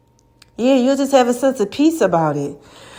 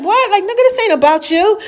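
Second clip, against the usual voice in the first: retold outrage; 10 semitones higher than usual. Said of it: "I'm like".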